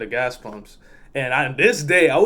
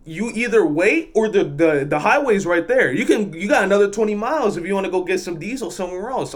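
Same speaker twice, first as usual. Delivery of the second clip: higher, insistent mock telling-off; retold telling-off; 5 semitones higher than usual. Attendant telling trucker to wait, retold firm rebuke. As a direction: lay down the law, lightly acted.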